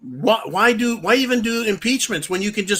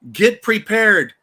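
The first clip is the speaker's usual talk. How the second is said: rallying call; 4 semitones higher, 4 dB louder, slower than usual. Real, not acted.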